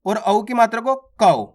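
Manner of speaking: slow, with कौ pushed out on an open au; forceful au. Shown as a demonstration. Teacher showing the harder au sound: slow forceful कौ. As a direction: lean on कौ with extra force. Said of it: "थोड़ा जोर लगाना पड़ता है".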